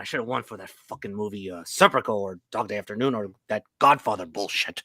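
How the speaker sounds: bragging aging movie star; boastful actor voice. Retold or imitated. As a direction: brag like a vain old star. Same voiced actor keeps bragging.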